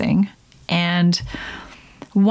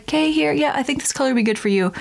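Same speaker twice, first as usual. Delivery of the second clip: higher, fast breezy suggestion; mock specialist; 6 semitones higher, much faster than usual. Veneer specialist picking a shade, quick light voice. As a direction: breeze through it like the dentist. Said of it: "And he's like".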